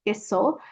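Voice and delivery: "queso" said plainly as a comparison; light rising "queso"; comparison word. Shown as a demonstration. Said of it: "kind of sounds like queso".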